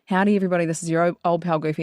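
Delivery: lightly voiced Goofy line; a hint of Goofy's folksy greeting; cartoon dog greeting, lightly done; Goofy impression. Shown as a demonstration. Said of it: "I'm just gonna get that bit".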